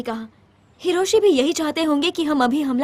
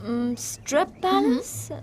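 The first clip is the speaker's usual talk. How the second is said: feigned innocence; 5 dB quieter, slower than usual. Acted. Girls covering up to a detective, feigned innocence. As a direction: play dumb, then squeal in disgust.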